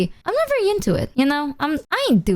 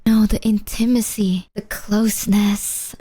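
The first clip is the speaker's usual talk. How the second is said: imitated earnest flirt; 2 semitones lower, slower than usual. Imitates the vague flirting friend.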